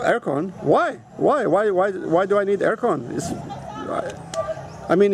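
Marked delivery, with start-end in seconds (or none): 0.0-3.1 retold bafflement, pitch jumping up on each why; mock surprise. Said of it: "I'm always very surp".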